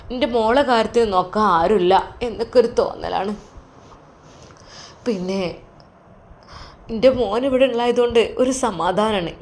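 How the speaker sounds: an anxious mother explaining; lightly voiced mother; worried mother. Mother speaks to son.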